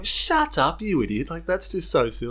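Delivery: imitated scolding, pitch jumps on the outburst; mock exasperation. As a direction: scold an idiot on screen, only half in earnest. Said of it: "shaking your head going".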